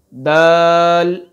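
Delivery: دال held long and steady; drawn-out daal. Shown as a demonstration. Teacher reviewing letters, دال drawn out. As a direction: stretch دال slowly. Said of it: "پہلا ہم نے کیا پڑھا تھا".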